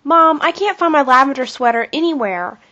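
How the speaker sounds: put-on high, loud childish wail. A narrator's reading. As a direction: wail it out, upset and pleading. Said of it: "wailed Kathy".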